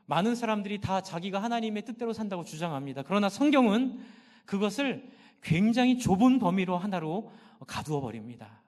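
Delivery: ordinary talk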